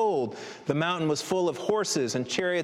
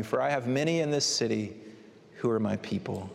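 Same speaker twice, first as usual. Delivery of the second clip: gentle reading; 3 semitones lower than usual. Shown as a demonstration. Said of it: "I want you to hear these words".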